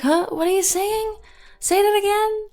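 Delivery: high, exaggerated puzzled asking; mock can't-hear-you. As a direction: play someone straining to hear with a hand cupped at their ear. Mimicking people who can't hear her.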